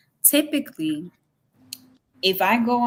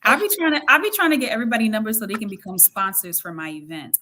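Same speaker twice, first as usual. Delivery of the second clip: put-on country accent; faster than usual. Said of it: "Why you saying the country accent?".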